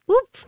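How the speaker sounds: high little "whoop" of surprise; surprised whoop. Retold or imitated. Host describing a stage trick to actors, surprised whoop. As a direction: pop it out like a vanishing act. Acting out robe vanishing.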